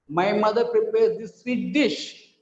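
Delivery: slow, with the emphasis saved for "dish"; stress on DISH. Shown as a demonstration. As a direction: land firmly on "dish". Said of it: "we change the stress".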